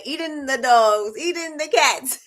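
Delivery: hammed-up eating the cats line; quoting meme. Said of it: "I don't know why it came in my head".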